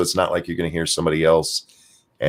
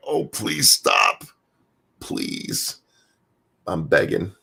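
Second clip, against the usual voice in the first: lispy pleading; much slower than usual. Retold or imitated. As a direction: plead with a lisp. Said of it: "Paulie's getting lispy".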